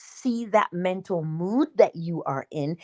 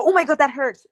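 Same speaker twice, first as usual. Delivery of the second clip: mock pain cry; 7 semitones higher, 4 dB louder, faster than usual. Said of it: "and you go".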